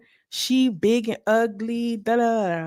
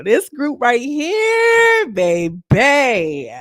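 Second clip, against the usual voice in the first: slow, crying-laughing drawl; cracking up at the group; laughing disbelief; 6 semitones higher, 5 dB louder, much slower than usual. Real, not acted. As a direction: laugh through the words in disbelief. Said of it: "I was like".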